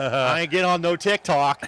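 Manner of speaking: put-on grumpy old-timer refusing; gruff stubborn refusal, lightly played; old curmudgeon. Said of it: "I'm like the old curmudgeon".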